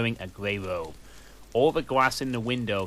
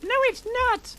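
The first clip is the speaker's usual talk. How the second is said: much higher, louder angry cry; angry shout; 4 dB louder than usual. A narrator's reading. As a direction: shout it in fury. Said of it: "I shouted angrily".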